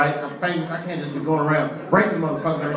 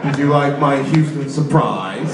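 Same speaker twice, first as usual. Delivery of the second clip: solemn villain's broadcast; Gay Bin Laden; 3 semitones higher, 6 dB louder than usual. Acted. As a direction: threaten the nation from a hideout tape. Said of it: "Gay Bin Laden has spoken".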